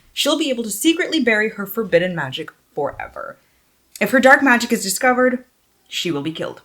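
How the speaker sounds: lifted, animated back-cover reading; expressive book-jacket narration; dramatic blurb read. Real, not acted. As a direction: read the blurb out with storyteller emphasis.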